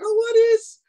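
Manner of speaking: high, loud mock Jamaican-style gushing; imitating excited woman. Woman calling her friend in Jamaica, high excited gushing. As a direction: gush over the fabric like the vlogger did. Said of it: "she started going off".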